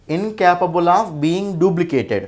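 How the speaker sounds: very slow, measured reading of an exam phrase; teacher's slow dictation. Shown as a demonstration. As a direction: space out each word for students. Reading out the question phrase again.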